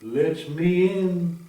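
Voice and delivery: high, loud, slow yell at the door; wolf hammering on the door, yelling. Acted. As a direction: bellow it through the door. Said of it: "and he yelled".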